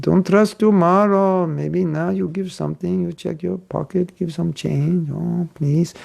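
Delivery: a light mock of a pushy book distributor pressing for change; pushy pleading. Book distributor pressing a donor who says no money, insistent coaxing. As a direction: nudge and coax, insisting they give now.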